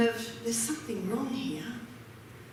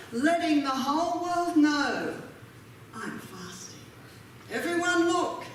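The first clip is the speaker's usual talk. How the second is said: showing off; 2 semitones higher than usual. Pretend. Mocking showy fasters.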